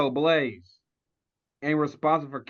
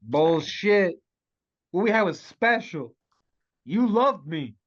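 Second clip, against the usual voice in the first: raised, insistent lover's protest; hurt protest; 4 semitones higher, 4 dB louder than usual. Acted. Betrayed lover insists it was real, raised hurt protest. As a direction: push back, wounded and emphatic.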